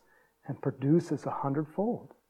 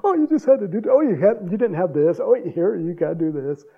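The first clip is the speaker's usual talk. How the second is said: Tony; 3 semitones higher, 5 dB louder than usual. Retold or imitated. Imitates handyman showing the easy fix.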